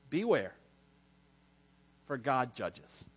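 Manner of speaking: slow, low, ominous; solemn warning. Acted. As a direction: let the warning sink in.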